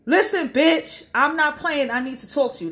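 firm, no-nonsense appeal; dead serious. Acted. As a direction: press a friend to take you seriously. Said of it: "Now they gonna know you serious".

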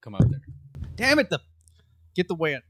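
loud, high mock ring entrance yell; Stone Cold entrance. Podcaster acting out Stone Cold's entrance, loud. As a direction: bellow it like a wrestler storming out. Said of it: "That thing. I was trying to do that".

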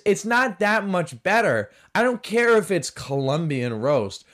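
ordinary talk, nothing marked

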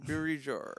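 L's turned to R in the singer's name, mock Asian accent. Co-host capping the bit, the singer's name in mock Asian accent.

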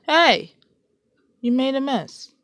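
high sharp shout. Acted. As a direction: yell at him to stop. Nate scolding his brother.

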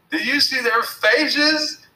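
high, loud, gleeful delivery; laughing. A narrator's reading. Billy mocking the boys who fled, laughing. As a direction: crow it with laughter in the voice.

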